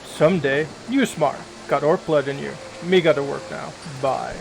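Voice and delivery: lightly voiced orc in broken English; a hint of a tired, grumbling orc laborer; orc worker. Orc complains, then leaves.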